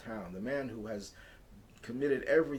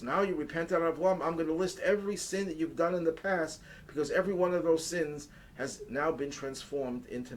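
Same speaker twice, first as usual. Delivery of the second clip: louder and higher, proclaiming with joy; exultant Moses; 5 semitones higher, 5 dB louder than usual. Retold or imitated. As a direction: announce it like glad tidings to the crowd. Moses proclaims to the repentant people.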